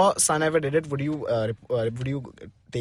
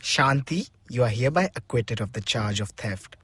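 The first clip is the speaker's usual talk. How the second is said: lower, softer, measured judge voice; judge's verdict; 8 semitones lower, 5 dB quieter than usual. Pretend. Friend plays the judge, softly pronouncing the verdict. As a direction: read the verdict like a kindly judge. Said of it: "I'm the judge".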